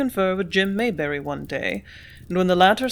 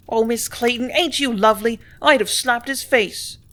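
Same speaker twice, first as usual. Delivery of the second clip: higher, admiring gush, slowing at the end; approving; 4 semitones higher, 3 dB louder than usual. Acted. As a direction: gush with delight at her boldness. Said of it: "she added in approval".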